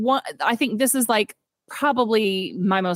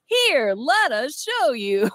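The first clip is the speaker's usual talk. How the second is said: Kens in unison; 4 semitones higher, much slower than usual. Retold or imitated. Kens lined up in chorus.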